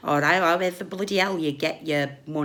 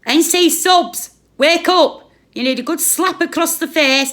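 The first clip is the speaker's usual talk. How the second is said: raging call to wake up, much louder; angry shout; 10 semitones higher, 8 dB louder than usual. Real, not acted. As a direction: shout them awake. Angry rant at viewers.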